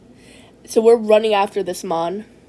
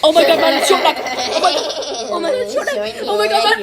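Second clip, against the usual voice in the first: mock shock; 10 semitones higher than usual. Spotting Short Neck while ending the video, a hammed-up shriek. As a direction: scream it like you just saw the villain.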